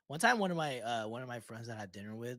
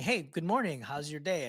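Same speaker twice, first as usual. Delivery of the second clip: friendly greeting; 2 semitones higher, 3 dB louder than usual. Shown as a demonstration. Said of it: "just saying".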